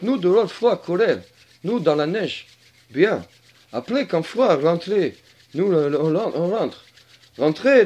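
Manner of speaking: put-on broken French in a Slavic accent; mock Slavic-accented French. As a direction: put on a comic Slavic accent, short halting phrases. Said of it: "je fais bien l'accent slave".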